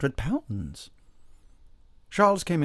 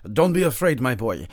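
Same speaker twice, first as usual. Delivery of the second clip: loud, higher start, dropping back; hearty reassurance; 3 semitones higher, 7 dB louder than usual. A narrator's reading. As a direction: buck up a nervous patient. Doctor reassures pale villager.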